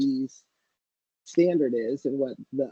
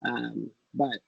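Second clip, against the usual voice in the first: underwater; 2 semitones lower than usual. Real, not acted. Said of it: "You kinda sound like you're underwater".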